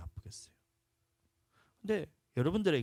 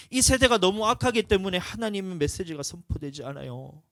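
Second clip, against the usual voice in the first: loud, higher fiery sermon; louder and higher preaching; preaching at full force; 6 semitones higher, 10 dB louder than usual. Acted. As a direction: thunder it from the pulpit.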